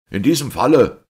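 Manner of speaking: detective rounding on the priest; terrible smiling shout. A narrator's reading. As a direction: yell with a dreadful smile. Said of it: "schrie Valentin mit fürchterlichem Lächeln".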